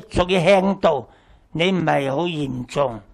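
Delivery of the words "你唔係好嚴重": normal talking voice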